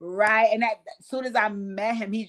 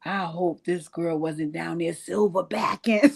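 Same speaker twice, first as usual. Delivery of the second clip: laughing dread; 4 semitones lower, 4 dB quieter, slower than usual. Retold or imitated. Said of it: "I was like".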